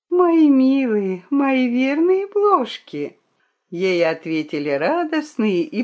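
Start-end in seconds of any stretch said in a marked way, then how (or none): 0.1-3.2 slow, high, doting croon; tender murmur. A narrator's reading. The blushing fox thanks her faithful fleas, tenderly. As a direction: coo tenderly, drawing the words out. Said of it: "Зардевшаяся хитраска прошептала".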